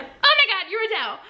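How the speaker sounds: high, breathless, laughing gush; starstruck again, fading. Retold or imitated. Fan repeats herself to her idol, laughing.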